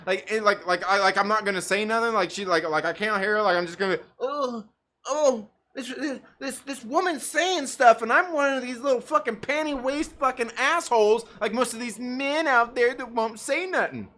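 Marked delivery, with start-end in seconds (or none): 4.2-14.1 lightly voiced, higher-pitched wimp; mocked timid man. Mocking men who won't say nothing, lightly voiced wimp. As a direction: put on a slightly higher, hesitant mock voice.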